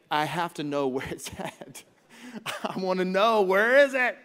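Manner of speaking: urgent where-is-it; frantic need to know. Retold or imitated. Obsessed over lost item.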